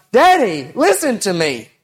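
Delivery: little son yelling for his father; child yelling. Retold or imitated. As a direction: call out like a small boy wanting attention. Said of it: "he'll just yell out".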